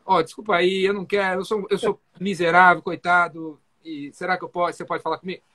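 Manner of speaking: grovel, trailing off; weak salesman begging for attention, meek and fading; timid apologetic salesman. Shown as a demonstration. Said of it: "esses vendedores meia boca".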